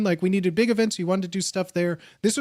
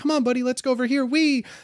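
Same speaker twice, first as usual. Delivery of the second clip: coaxing caregiver voice, pitched up; 5 semitones higher than usual. Retelling wheeling a drunk friend around: imitating own caregiver mode. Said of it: "caregiver mode whenever I'm doing things like this".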